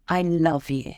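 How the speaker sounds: soft, tender I love you. Shown as a demonstration. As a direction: speaker trainer showing the soothing way, tender and soft. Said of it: "it's beautiful, it's soothing, there's warmth to it".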